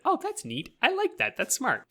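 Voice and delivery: high, bright-eyed gushing; a fan's delighted squeal, quoted; mock delighted fan. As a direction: gush like an impressed fan. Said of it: "I was like".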